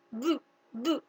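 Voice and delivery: "bu, bu," repeated slowly with lips pressed together; sonido bu. Shown as a demonstration. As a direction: show the children the sound "bu, bu," with a clear pop. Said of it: "suena bu". ("bu, bu," pronunciado despacio y marcado)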